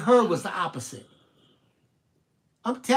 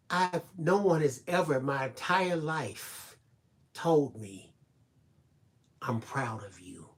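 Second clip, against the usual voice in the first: lower, softer and slower, near tears; tearful young woman; 3 semitones lower, 7 dB quieter, slower than usual. Retold or imitated. Crying young woman telling she never heard praise, low, soft, slow. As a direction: let the words break as if crying quietly. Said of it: "And she was crying".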